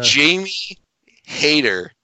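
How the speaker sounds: ring announcer. Acted. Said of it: "Doctor Britt Baker".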